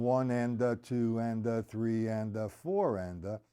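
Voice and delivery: steady sing-song triplet count; counting aloud. Shown as a demonstration. Drum teacher telling students to count while playing, counting aloud. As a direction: keep an even pulse through the count. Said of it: "While you're counting".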